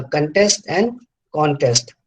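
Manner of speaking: contest stressed on test, then contest stressed on con; first contest weighted late, second contest weighted early; contrasting stress. Shown as a demonstration. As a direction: set verb contest against noun contest, slowly. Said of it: "you can feel the difference".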